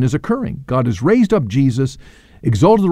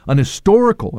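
"historical" punched higher; stress on HISTORICAL; 6 semitones higher than usual. Real, not acted. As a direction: lift and lean on the word "historical". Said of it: "I want to emphasize that".

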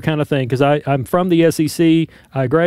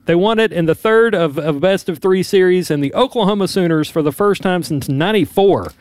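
emphatic sportscast recap; frustrated sports commentator. Real, not acted. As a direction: punch the key words like a sports anchor. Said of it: "You sound like a frustrated sports commentator".

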